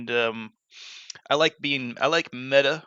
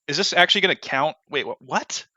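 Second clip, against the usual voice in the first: excited; 4 semitones higher, 5 dB louder than usual. Real, not acted. Excited about achievements.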